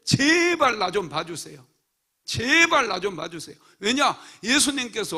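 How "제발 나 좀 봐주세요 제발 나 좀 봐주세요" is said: pleading cry. Acted. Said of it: "외치는 거예요".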